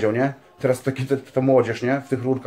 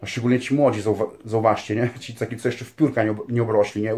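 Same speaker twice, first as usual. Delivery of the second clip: ordinary talk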